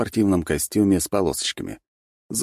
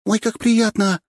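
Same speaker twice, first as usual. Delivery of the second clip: high, bright gush of joy; delighted; 6 dB louder, slower than usual. A narrator's reading. Nastya meeting the new boys, delighted high gush. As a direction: squeal with delight. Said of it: "обрадовалась Настюша".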